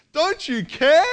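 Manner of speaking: high, loud accusing question; confronting demand. Retold or imitated. Someone confronting you, loud high accusing. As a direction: throw it in their face. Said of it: "comes up to you and confronts you".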